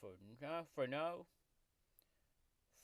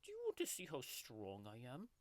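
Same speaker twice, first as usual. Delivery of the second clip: grumpy tiger mascot growling through a fake ASMR video; sulky tiger taking over the channel; tiger character voice; 5 semitones lower than usual. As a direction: play a cranky cartoon tiger throughout. Tiger character Oscar hosts the video.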